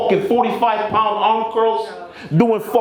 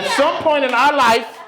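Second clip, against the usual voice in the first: high pleading voice; mock pleading; 9 semitones higher than usual. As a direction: plead up high like a wronged fan. Mock pleading to Android haters.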